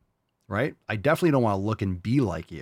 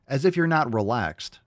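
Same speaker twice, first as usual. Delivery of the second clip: usual speaking voice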